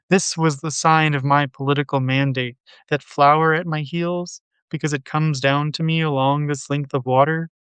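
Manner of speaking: steady, fluent poetry recital; poem reading. Acted. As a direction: read the poem aloud in measured, unbroken phrases. Reads a translated poem aloud.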